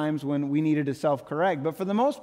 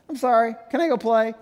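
put-on quick, careless kid's "sorry, can I go play"; childish brush-off apology; 3 semitones higher, 3 dB louder, faster than usual. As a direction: toss off the apology to get away. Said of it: "that same posture at times".

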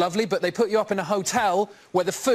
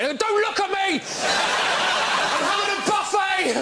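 much higher, slow, hammed-up cry; mock-frantic buffet hog, much higher; defensive glutton; 11 semitones higher, much slower than usual. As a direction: shoo onlookers away mid-binge.

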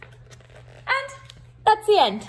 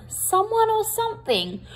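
or stretched high with a falling end; emphasis on or; 10 semitones higher than usual. Shown as a demonstration. Reading the blurb to children, leaning on or. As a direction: someone OR something, the or lifted high and falling.

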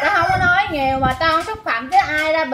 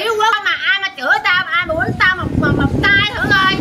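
heated rant, voice raised; real hollering tirade; 3 semitones higher than usual. Real, not acted. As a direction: keep protesting at a raised pitch, insistently. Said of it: "Đừng có lai làng". (la làng, giọng bức xúc)

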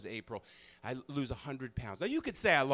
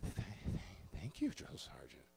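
stammering thanks; 9 semitones lower, 11 dB quieter than usual. Retold or imitated. Tearful recruit dismissed.

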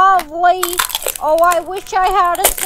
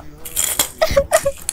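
giggle; 10 semitones higher, 4 dB quieter than usual. Acted. Reacting to Chad's death.

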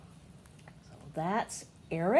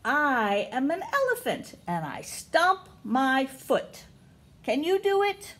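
storybook voice; reading to children; 3 semitones higher than usual. Acted. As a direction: read to the little ones, lifting each question. Reading picture book to kids.

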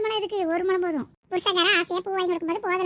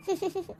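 laugh; 2 semitones higher, 6 dB quieter than usual. Acted. Relieved laugh after being rescued.

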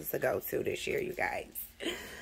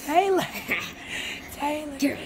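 calling out; 8 semitones higher than usual. Real, not acted. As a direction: sing out the name to rouse her. Waking kids on Christmas.

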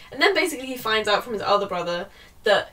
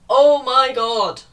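slow and louder, fed up; drawn-out exasperated oh my god; 2 semitones higher, 8 dB louder, much slower than usual. Real, not acted. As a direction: stretch it out, exasperated. Reacting to the plot.

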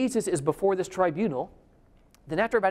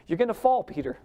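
laughing, quick and raised; 3 semitones higher than usual. Shown as a demonstration. Preacher laughing as he retells Jesus's warning to Peter. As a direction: laugh it out playfully.

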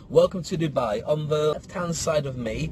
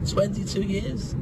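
"Twenty-two years?" high, rising, disbelieving; 5 semitones higher, slower than usual. Shown as a demonstration.

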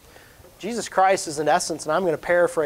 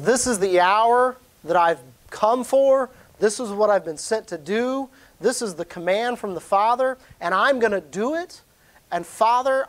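fervent prayer; 5 semitones higher than usual. Acted. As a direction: lift the voice up as if praying to the Father yourself. Voicing Jesus praying to the Father.

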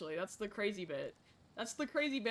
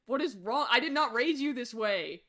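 scolding; 4 dB louder than usual. Acted. Mother scolding murderous kids.

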